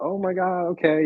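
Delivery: very high, slow, drawn-out acted bawling. Retelling hearing a reader's grim warning: retelling own crying. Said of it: "And I just start bawling".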